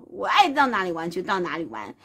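ordinary delivery, nothing marked

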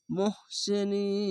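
softly chanted, long-held নিন closing on n; three-alif elongation. Shown as a demonstration. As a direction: draw the নি of মুহসিনিন out very long on one even note. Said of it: "তিন আলিফ টেনে পড়তে হবে।".

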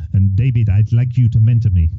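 lightly attempted Kenyan accent. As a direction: have a rough go at a Kenyan accent. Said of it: "That was my Kenyan accent".

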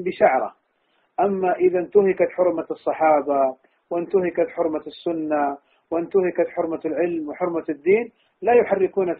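rising passion, building to a forceful rebuke; heated preaching. Real, not acted. Shaykh rebuking students who avenge themselves, impassioned preaching. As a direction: preach it with mounting indignation.

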